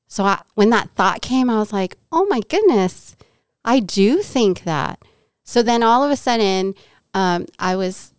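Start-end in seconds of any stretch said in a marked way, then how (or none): 2.1-5.0 surprised realization. Retold or imitated. Sudden realization of own thought.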